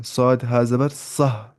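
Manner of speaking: slow drawn-out Arabic letter sounds; letter sound demo. Shown as a demonstration. Teacher sounding out letters slowly for the class. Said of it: "लाई इसको एंड पे हाय साकिना".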